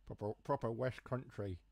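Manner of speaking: lightly put-on West Country farmer accent. Shown as a demonstration. Streamer mocking own accent slip, hammed West Country farmer accent. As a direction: lean gently into rural West Country. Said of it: "I just go into a farmer accent".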